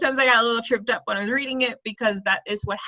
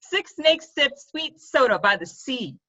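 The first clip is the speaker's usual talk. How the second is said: careful slow retry; 2 semitones higher, slower than usual. Shown as a demonstration. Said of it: "I'm already messing up".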